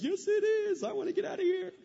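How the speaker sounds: high, loud mock cry of agreement; laughing Californians. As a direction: shout it like you're desperate to escape. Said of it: "some of you are laughing like".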